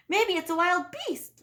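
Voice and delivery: high, loud little-bear squeal. A narrator's reading. Little bear squeals at the idea of a beast. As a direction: squeal it like a scared cub. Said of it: "Little Wee Bear squealed".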